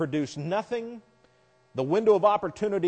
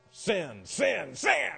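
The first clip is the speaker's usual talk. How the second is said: mock horseshoe player; 4 semitones higher, much slower than usual. Mimics pitching horseshoes.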